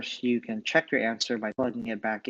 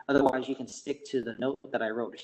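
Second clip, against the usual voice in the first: audio cutting out. Real, not acted. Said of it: "Your audio is cutting out".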